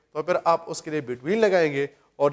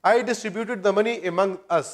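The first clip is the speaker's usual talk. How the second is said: plain; 2 semitones higher, much slower than usual. Shown as a demonstration. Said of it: "پھر next ہمارے پاس ہے".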